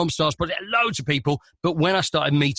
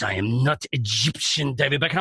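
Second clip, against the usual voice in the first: imitating indignant footballer. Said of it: "face like thunder".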